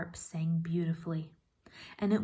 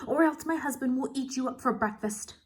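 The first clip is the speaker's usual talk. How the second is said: a touch of a menacing giantess, higher; threatening giantess; 7 semitones higher, 5 dB louder than usual. Acted. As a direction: warn the boy off, mildly menacing.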